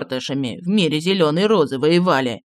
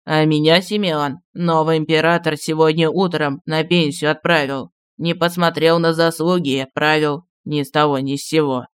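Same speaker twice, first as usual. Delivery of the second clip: aggrieved; 3 semitones lower than usual. A narrator's reading. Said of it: "неожиданно с обидой произнёс".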